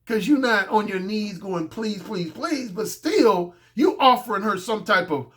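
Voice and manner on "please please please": softly pleading pleases; hushed, repeated begging. Acted. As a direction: plead in a small, soft voice. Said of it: "that's not technically begging".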